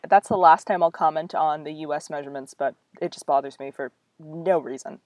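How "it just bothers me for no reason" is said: half-whispered grumble; under the breath, a private gripe; whispered aside. Real, not acted. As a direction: reader whispering a complaint about feet. Muttered aside about US measurements.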